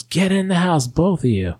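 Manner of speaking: high mock-maternal command; mother yelling. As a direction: imitate a mad mom ordering kids indoors, pitch jumping up. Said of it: "she starts yelling at us".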